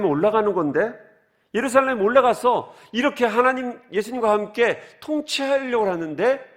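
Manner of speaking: high, excited disciple voice pleading his plan; eager disciples. Retold or imitated. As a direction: voice the disciples dreaming of power, pitched high. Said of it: "제자들이 이랬을 거예요". (들뜬 높은 목소리로 제자 흉내)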